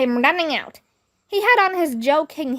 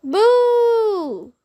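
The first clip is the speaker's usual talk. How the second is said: put-on much higher jeering kid; booing shout; 8 semitones higher than usual. A narrator's reading. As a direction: jeer from the crowd. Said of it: "somebody shouted".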